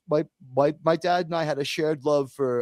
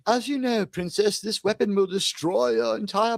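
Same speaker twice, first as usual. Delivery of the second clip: mock British sci-fi line; 4 semitones higher than usual. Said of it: "British actors to deliver hard-to-believe dialogue".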